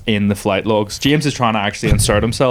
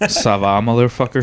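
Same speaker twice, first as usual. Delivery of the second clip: put-on French accent. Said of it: "regional French accent I actually have".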